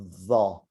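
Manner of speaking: Za, tongue out, cheeks puffed up; Arabic va sound. Shown as a demonstration. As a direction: round the cheeks and say Za. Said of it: "cheeks are puffed up".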